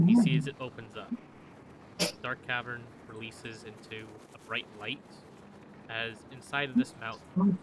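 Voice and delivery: measured scene-setting with dramatic pauses; storyteller pacing, key images punched; game master narration. A narrator's reading. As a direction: narrate the arrival in unhurried phrases.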